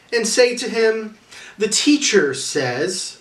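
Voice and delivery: a lightly voiced Jesus giving directions; Jesus speaking.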